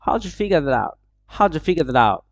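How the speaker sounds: "How'd you figure that out" with "how-ju" run together; casual, linked "How'd you"; connected speech. Shown as a demonstration. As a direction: rattle it off as "how-ju figure-dat-out". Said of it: "না বলে ওরা বলবে".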